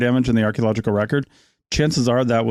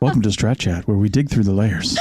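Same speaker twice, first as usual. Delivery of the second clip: radio host voice; 3 semitones lower than usual. Acted. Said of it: "a radio show from the nineties".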